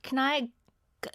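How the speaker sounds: put-on tentative British accent, breaking into giggles; attempted British accent. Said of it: "do your best British accent".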